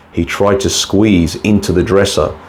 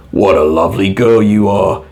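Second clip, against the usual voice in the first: muffled voice; 2 semitones higher than usual. Acted. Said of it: "the voice from under the bed covers".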